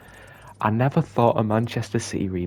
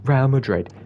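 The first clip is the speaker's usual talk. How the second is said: excited announcement; 5 semitones higher, 7 dB louder than usual. Real, not acted. Announcing the Champions League final.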